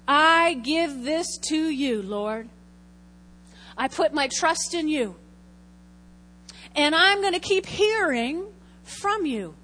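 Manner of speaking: emphatic plea, stretched on the surrender; demonstrated prayer. Shown as a demonstration. Preacher shows how she gives worry to God, earnest prayer. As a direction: hand it over to God with deliberate weight.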